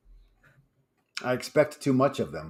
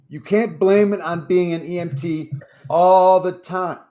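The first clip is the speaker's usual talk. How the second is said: dramatic reading; 4 semitones higher, 4 dB louder than usual. Shown as a demonstration. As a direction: read it like a big confession. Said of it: "I like how you read it".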